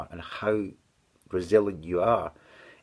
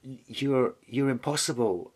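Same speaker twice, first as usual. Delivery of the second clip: tearful protest; 5 semitones higher than usual. Retold or imitated. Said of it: "crying my eyes out".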